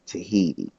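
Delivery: "Tahiti" said tuh-HEE-dee; "Tahiti" as tuh-HEE-dee, middle syllable stressed; correct pronunciation. Shown as a demonstration. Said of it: "It's really".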